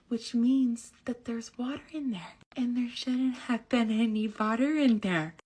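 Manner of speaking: lecturing brother. Retold or imitated. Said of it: "I'm like".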